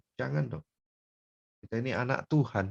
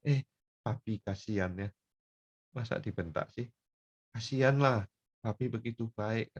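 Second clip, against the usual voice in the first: soft, tender sympathy; pitying child; 2 semitones higher, 5 dB quieter than usual. Acted. Child pitying a scolded father, softly moved. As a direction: quietly feel sorry for dad. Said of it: "Saya mau nangis, saya ngomong begitu".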